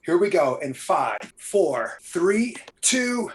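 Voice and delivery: punchy host intro into countdown; show host intro. Acted. Host welcoming viewers to the watch party, announcer intro.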